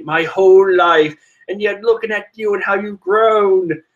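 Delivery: sister's inner voice. Retold or imitated. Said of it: "I can't do a woman's voice".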